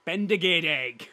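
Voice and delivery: slow, emphatic Welsh; Welsh accent. Shown as a demonstration. Friend showing off his Welsh, slow Welsh accent. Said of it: "you do the accent to speak Welsh".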